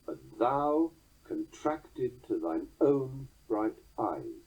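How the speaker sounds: slow, own hit firmly after three light beats; stress on own. Shown as a demonstration. Lecturer showing the beat falling on own, stress on own. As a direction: skim to thine, then hammer own. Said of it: "resolved by the next accent, in this case, own".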